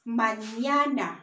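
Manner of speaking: mañana drawn out as "mah-NYAH-nah"; ña sound. Shown as a demonstration. Teacher giving an example word, mañana with clear ña. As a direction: say mañana carefully, dwelling on the ña. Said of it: "it's gonna make the".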